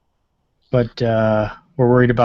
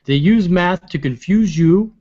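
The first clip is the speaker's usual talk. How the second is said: Bernie Sanders impression; 7 semitones higher, slower than usual.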